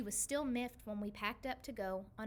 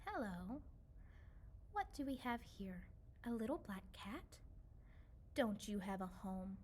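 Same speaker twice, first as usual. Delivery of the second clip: gentle comforting; 2 semitones lower, 4 dB quieter than usual. Acted. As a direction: soothe the wet little cat. Old woman comforts lost cat.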